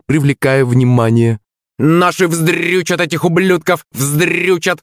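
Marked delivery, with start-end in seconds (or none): 1.8-4.8 high, gloating parrot voice; screeching parrot. A narrator's reading. Parrot jeering the rival team, high screech. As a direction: squawk it like a parrot fan. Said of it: "продолжал попугай".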